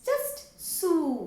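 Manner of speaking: सू with a long ऊ, slowly; drawn-out soo. Shown as a demonstration. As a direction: stretch सू long. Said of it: "तो वो होगा सू". (लंबा खींचा हुआ सू)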